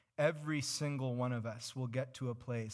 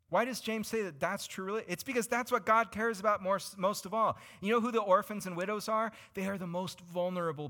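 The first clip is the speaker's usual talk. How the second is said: louder, higher, emphatic preaching; 7 semitones higher, 4 dB louder than usual. Acted. Preacher pressing the congregation with emphasis. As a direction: drive the point home.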